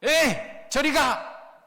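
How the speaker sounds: slow dismissive shoo; scolding. Acted. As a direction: brush the beggar off with contempt. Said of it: "사람들이 그를 꾸짖어요".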